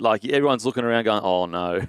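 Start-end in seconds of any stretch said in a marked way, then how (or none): 1.2-1.9 low, sinking imitation of dread; imitated groan of disappointment; mock dismay. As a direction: drop the pitch like a let-down crowd. Voicing everyone's reaction to the blunder.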